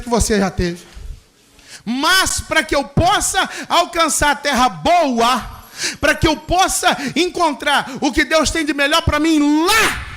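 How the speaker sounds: rising, pounding preacher's cadence with shouted peaks; impassioned Pentecostal sermon build; fervent preaching. Acted. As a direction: drive it home to the congregation. Preaching perseverance at full force.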